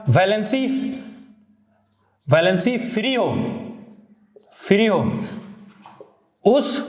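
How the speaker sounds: slow, isolated words with long pauses; word-by-word dictation. Shown as a demonstration. Teacher dictating a definition to students, word by word. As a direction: dictate piece by piece, leaving time to write.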